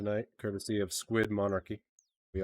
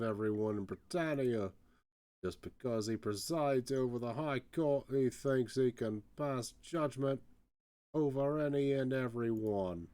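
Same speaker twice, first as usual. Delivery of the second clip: grumbling Cockney prisoner; lightly voiced Cockney jailbird airing a grievance; light Cockney accent, indignant grumble; 3 semitones higher, slower than usual. Voices a jailed game character.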